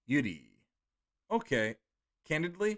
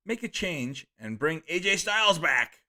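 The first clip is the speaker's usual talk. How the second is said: enthused reading; 3 semitones higher, 3 dB louder than usual. Retold or imitated. Streamer gets carried away reading a fan's chat message. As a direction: read it with a little too much gusto. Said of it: "Sorry, I got enthused by that".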